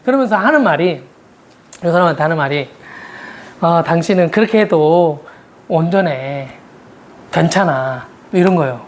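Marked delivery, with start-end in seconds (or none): 3.6-8.1 lightly voiced gentle reassurance; reassuring. Reassuring the angry spouse.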